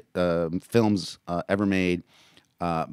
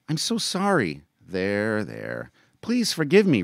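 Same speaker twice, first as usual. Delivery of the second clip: put-on crying boy; 4 semitones higher, 4 dB louder than usual. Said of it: "Marcellus cried".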